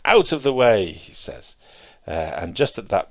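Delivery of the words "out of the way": raised, louder retold warning cry; mahout's shout. Mahout to the boy who won't move, shouting. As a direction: imitate a driver shouting from on high. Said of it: "mahouts sitting on top shouting".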